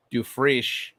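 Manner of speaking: Dufresne said as "doo-FRISH"; tentative pronunciation. Shown as a demonstration. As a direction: try Dufresne with a "frish" ending. Trying out ways to say a name.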